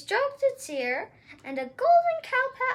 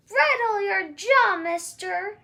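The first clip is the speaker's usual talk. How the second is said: louder, stern shout; 4 dB louder than usual. Acted. Ma facing the giant with an axe, stern shout. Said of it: "she shouted".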